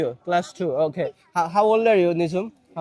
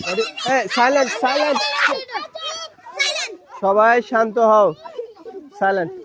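calling for silence; 4 semitones higher than usual. Real, not acted. Quieting a noisy class.

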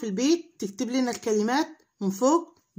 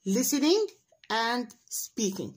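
slow model pronunciation; much slower than usual. Shown as a demonstration.

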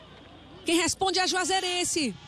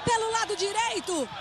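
excited; 3 semitones higher than usual. Real, not acted. Celebrating the goal scorer.

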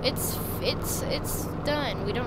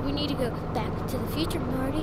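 retry the Doc voice, less shouty; second Doc impression. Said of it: "why does he sound like an Australian stranger".

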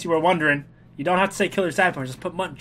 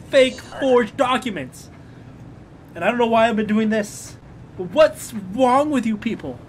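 indignant guard rant; 4 semitones higher than usual. Acted. Mock indignant border guard rant.

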